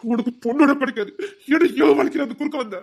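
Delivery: villain cursing the rival who crossed him; furious curse. Acted.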